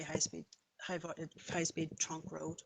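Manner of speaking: tripping over a word mid-phrase; stuttering. Real, not acted. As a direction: restart the phrase after a slip. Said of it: "Sorry, I'm stuttering here".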